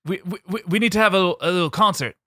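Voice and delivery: high, loud buddy call; lightly voiced party bro; mock bro greeting. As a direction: hail your old pal. Plays Holly King.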